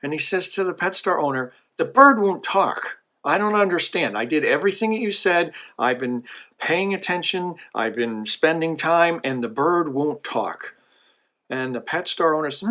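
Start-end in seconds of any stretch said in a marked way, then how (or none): 1.8-10.8 mildly angry complaint, pitched higher; kinda angry. Acted. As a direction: play a frustrated customer protesting. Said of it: "he's kinda angry".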